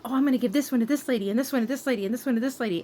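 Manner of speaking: high, quick mock-giddy nurse. Mocking the nurse who handed out donated dolls, giddy. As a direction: imitate her eager, greedy glee. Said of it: "she just seemed overly giddy and happy".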